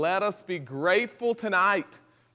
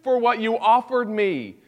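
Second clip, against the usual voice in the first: grateful prayer. Pretend. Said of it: "But we'll stand before God and say".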